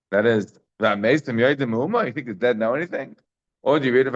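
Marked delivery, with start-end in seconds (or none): 0.8-3.2 skeptical rhetorical question, rising; ironic reading. Shown as a demonstration. Teacher reads the pasuk as irony, ironic questioning. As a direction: read it as irony, doubting the words. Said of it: "read that pasuk in an ironic way".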